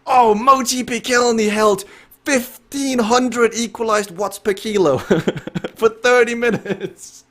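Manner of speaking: high, excited joking commentator call; mock hype. Joking to chat about a fake wattage, mock hype. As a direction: ham up the wild number for fun. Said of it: "I'm just having some fun here".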